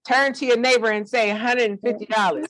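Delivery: playful church call-and-response prompt; church preacher. Pretend. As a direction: lead the room like a preacher. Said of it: "I'm about to take you to church".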